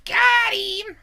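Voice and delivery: high loud cheer; excited cheer. Real, not acted. GM cheering a player's hit in combat, high and loud.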